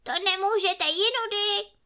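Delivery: high, angry little forest man; Trneček scolding the fairy for wrecking his hut, angry shout. Acted. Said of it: "křičí a zlostně".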